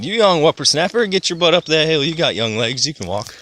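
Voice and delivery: put-on old uncle voice. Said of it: "my great uncle Darnell said".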